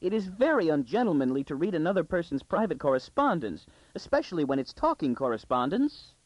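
put-on high, protesting girl's voice; anguished squeak. A narrator's reading. Daughter objecting to father reading private correspondence, in squeaky anguish. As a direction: squeal the objection with wounded dignity. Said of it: "she squeaked in real anguish".

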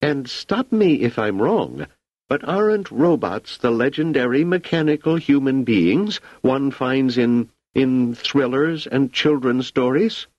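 high, agitated imperial voice; an emperor losing his composure; irate emperor. Acted.

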